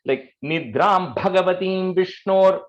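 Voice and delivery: slow, Bhagavatim with its Bha stressed; emphasis on bha. Shown as a demonstration. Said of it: "everywhere the Bha, I would have emphasized".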